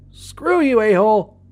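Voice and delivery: very high, loud shrieking shout; creepy shout. A narrator's reading. The grinning thing mocking the boy before shooting, shrieking shout. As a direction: shriek it with cruel glee. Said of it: "in that creepy-ass voice".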